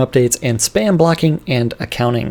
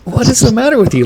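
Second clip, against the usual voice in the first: mock outrage; 9 semitones higher, faster than usual. Teasing outrage at friend.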